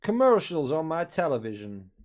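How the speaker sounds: a lightly put-on, bad American accent; mocking American TV ads in a weak American accent; terrible American accent. Mock American accent mocking the halftime adverts. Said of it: "That was a terrible American accent".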